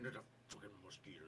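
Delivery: low, soft grumbling mutter; Jathuni. Acted. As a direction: mutter an irritated curse under your breath. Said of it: "you hear Jathuni muttering".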